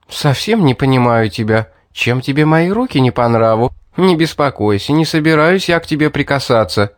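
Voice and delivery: a hint of a sly girl persuading; girl coaxing him down from the ledge, lightly voiced; Mary voiced lightly.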